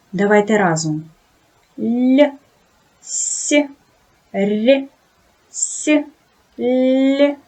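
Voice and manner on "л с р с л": "Л", "с", "р" pronounced soft, palatalized; each sound said soft, one by one; soft consonants. Shown as a demonstration. Teacher models soft sounds for pupils to repeat. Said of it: "Вимовте звуки".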